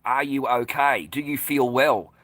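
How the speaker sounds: slow, drawn-out mock concern; over-careful "are you okay, sir"; imitated staff concern. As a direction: slowly mimic a prying shop worker. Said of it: "this one has piped up".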